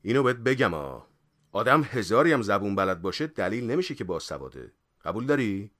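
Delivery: firm, earnest lecturing; suddenly serious. Acted. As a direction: lay down the point seriously. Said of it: "یهو جدی شد و گفت". (جدی و محکم)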